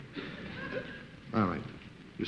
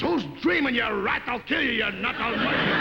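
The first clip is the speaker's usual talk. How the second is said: raised-pitch imitation of a furious wife; mock angry threats; 5 semitones higher than usual. Wife threatening her husband, mock fury. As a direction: hurl exaggerated threats.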